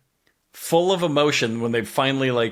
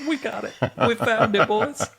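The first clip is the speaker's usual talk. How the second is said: high, wavering mock-emotional voice; hammed-up choked-up triumph; 9 semitones higher than usual. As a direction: overdo the teary victory line. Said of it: "a little choked up".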